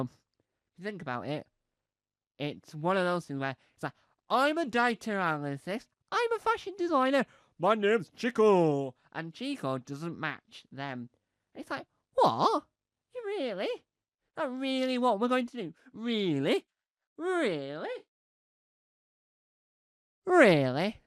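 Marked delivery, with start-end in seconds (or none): 4.3-8.9 high, put-on voice of a fussy couple; mock couple voice. Couple introducing themselves in a high put-on voice. 12.1-21.0 high, whiny indignant dog voice; dog in disbelief. Pretend. Dog protesting its owners in a high whine.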